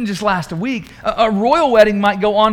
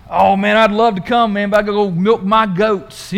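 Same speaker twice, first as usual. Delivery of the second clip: louder, folksy mock farmer excuse; imitating farmer; 5 dB louder than usual. Farmer turning down the king's invitation, hammed-up. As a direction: play a farmer begging off the party. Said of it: "the farmer saying that".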